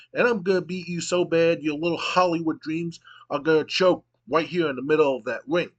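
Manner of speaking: lightly voiced tough brawler; Stone Cold promo. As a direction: taunt your rival on the mic, hammed-up. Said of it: "And Stone Cold goes".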